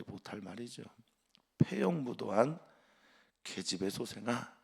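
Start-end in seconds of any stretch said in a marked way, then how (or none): 1.6-4.6 a touch of a furious king cursing his son; lightly voiced contemptuous rebuke, rising at the end; mild mock outburst from Saul; king's angry insult. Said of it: "이렇게 말합니다".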